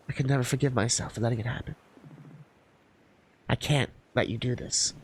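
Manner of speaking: low, subdued and grave; pained refusal. Acted. Partner refuses to let Melody risk herself, pained. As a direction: say it low and slowing, heavy with guilt.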